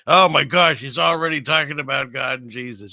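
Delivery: loud mock outcry, then easing; mock indignation. Viewer objecting to talk of God, mock indignant. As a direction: play a scandalized viewer complaining.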